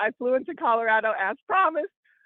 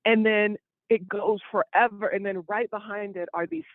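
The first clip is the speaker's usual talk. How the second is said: slow scenic description; 3 semitones lower than usual. Acted. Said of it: "let me describe it for the people".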